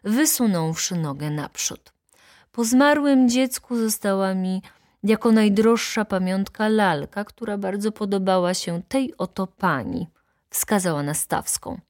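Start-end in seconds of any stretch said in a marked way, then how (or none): 2.5-10.1 higher-pitched solemn recitation; declaiming. A narrator's reading. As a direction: declaim it to the court as a wronged baroness. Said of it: "zaczęła deklamować pani baronowa". (deklamacja przed sądem)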